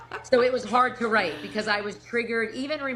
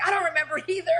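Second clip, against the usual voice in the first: high, giggly give-up; laughing admission; 10 semitones higher, faster than usual. Retold or imitated. Telling her husband she forgot the fight, laughing. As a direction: laugh through the confession.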